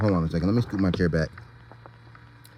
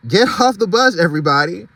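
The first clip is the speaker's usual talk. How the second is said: higher urgent call; shouting; 7 semitones higher than usual. Acted. Driver orders animals off the tracks, urgent shout. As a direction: hurry everyone off the bus. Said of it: "he shouted".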